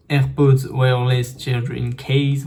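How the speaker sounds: slow, careful English read with a heavy French accent; clumsy French accent on the English words. Real, not acted. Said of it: "mon accent est vraiment mauvais".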